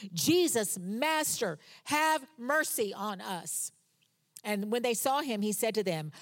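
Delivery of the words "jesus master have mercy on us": raised, drawn-out plea; calling out. Retold or imitated. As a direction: call out from a distance. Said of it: "raised their voices and called".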